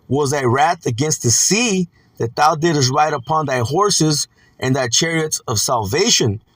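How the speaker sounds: slow, drawn-out verse reading; scripture reading. Acted. Preacher reads Habakkuk's questions to the Lord, slow scripture reading. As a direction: read out the questions slowly and formally.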